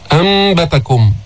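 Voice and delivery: أنبتكم said "ambatakum" with a hummed م; nasal "am" opening أنبتكم; noon turned meem. Shown as a demonstration. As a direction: turn the ن of أنبتكم into a held m. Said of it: "تقلب هذه النون الساكنة ميما".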